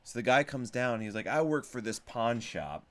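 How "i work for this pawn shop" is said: playful put-on Chicago accent as the pawn shop guy; slower, hammed Chicago pawn shop guy. Pawn shop guy asking repair shop for help, in a Chicago accent. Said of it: "I'm doing the Chicago accent".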